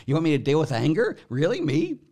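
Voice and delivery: high, disbelieving "Me?"; can you believe they asked me; mock-astonished self-pointing question; incredulous. Real, not acted.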